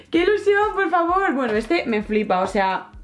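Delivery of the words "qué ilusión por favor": high excited squeal; real delight at a gift; thrilled squeal. Real, not acted. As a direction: gush over it with delight. Thrilled by the band-themed Funko.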